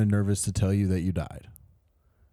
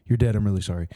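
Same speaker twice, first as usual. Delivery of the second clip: timid, halting grim reaper; nervous Death voice; 4 semitones lower, 4 dB quieter than usual. Pretend. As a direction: stammer it out like a shy Death. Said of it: "a really nervous death on his first day".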